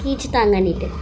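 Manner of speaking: high whiny mock of her complaint; mocking imitation. Sister-in-law mocks Trisha's drama, whiny mock voice. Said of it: "ரொம்ப தான் scene போடுறா".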